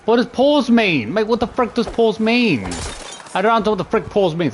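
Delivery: fed-up confusion; exasperated demand. Real, not acted. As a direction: demand an answer from the game. Confused by the instruction.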